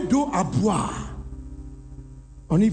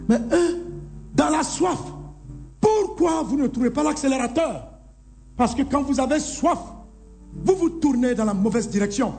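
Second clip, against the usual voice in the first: higher, fervent reproach; raised preaching voice; 5 semitones higher than usual. Acted. Preacher voicing Jesus calling out the thirsty, high and fervent.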